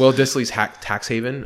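hiccuping mid-sentence; holding back hiccups; suppressing hiccups. Real, not acted. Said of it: "Sorry, I have the hiccups".

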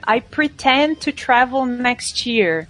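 slow, careful learner English; student voice. Retold or imitated. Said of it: "alguém falando assim".

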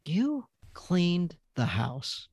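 surprised wife. Retold or imitated. Wife noticing the cleaning.

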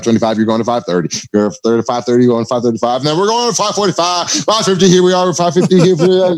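lightly imitated auctioneer patter. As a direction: rattle off the bids like an auctioneer. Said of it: "He's like".

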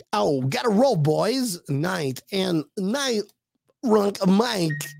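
N=Christopher Walken/public; Christopher Walken impression. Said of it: "that's my Christopher Walken".

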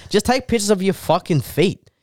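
heated mock tirade, jumping up in pitch; mad rant. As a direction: rant as if scolding someone, hammed-up. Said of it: "It made me so fucking mad".

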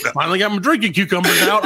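mock sister.

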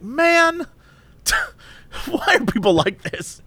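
high drawn-out groan of man; exasperated man. Retold or imitated. Stuck behind Karen in drive-through, high exasperated groan. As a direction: whine it like a horn blast. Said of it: "exasperated at Karen".

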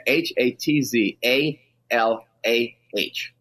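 slow, each letter spoken separately; slow careful spelling for the radio audience; spelled letter by letter. Real, not acted. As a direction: spell it out slowly for the listeners. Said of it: "I can't spell Hatzalah".

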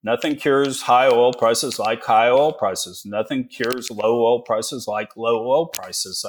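slow, measured sing-song slogan; little sing-song. Shown as a demonstration. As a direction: recite it slowly like a children's TV lesson. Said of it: "let's do a little sing song".

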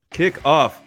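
upbeat sportsbook ad read. Shown as a demonstration. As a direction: sell it like a radio spot. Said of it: "you gotta read the read".

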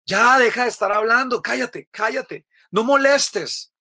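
más agudo, regañando con fuerza; multitud mandando callar. Acted. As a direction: callarlo con desprecio, alargando el final. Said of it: "le gritaban". (la gente le grita al ciego que se calle)

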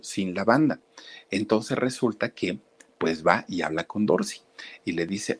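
ordinary talk

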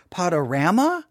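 "Potorama" said "Pod-uh-RAM-uh", rising; flat a in "Potorama"; first option. Shown as a demonstration. Host asks listeners how to say it, rising. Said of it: "how do you say it".

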